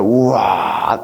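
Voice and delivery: long, drawn-out wow of mild awe; put-on wow, understated; mock amazement. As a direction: lightly act out gaping at something huge. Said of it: "하고 놀래죠".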